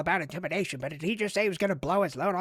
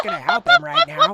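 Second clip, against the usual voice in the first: much higher, louder silly voice; squeaky voice; 11 dB louder than usual. Pretend. The bomber declining the catchphrase in a squeaky high voice.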